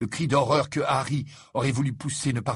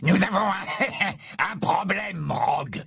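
1 nervous snicker; 9 semitones higher, slower than usual. A narrator's reading. Amycus nervous to Snape.

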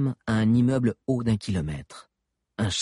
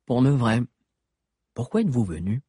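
talking with her mouth full; 2 semitones higher than usual. A narrator's reading. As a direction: speak through a mouthful of cake. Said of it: "sans même vider sa bouche".

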